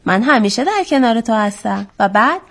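measured, lilting storytime reading; story narration for children. A narrator's reading. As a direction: tell it to children with a rise and fall.

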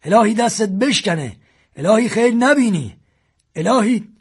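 grieving man cursing the shooter, near tears; tearful cursing. A narrator's reading. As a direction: wail the curses through a lump in the throat. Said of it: "بغض کرد و ورد گرفت".

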